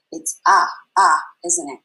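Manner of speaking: "uh" as the u in umbrella; short u sound. Shown as a demonstration. Teacher naming the short U sound for the class. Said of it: "what is our short sound for U?".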